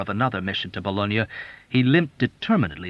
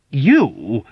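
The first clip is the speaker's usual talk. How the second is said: mournful accusing; 4 semitones higher, 8 dB louder than usual. A narrator's reading. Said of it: "exclaimed mournfully with accusing disgust".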